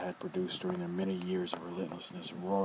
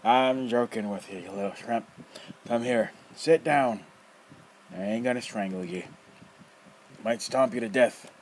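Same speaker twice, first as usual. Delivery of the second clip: loud, rough, mocking old man; teasing old rogue; 4 semitones higher, 6 dB louder than usual. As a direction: toy with the kid, loud and gleeful. Nefer teasing boy.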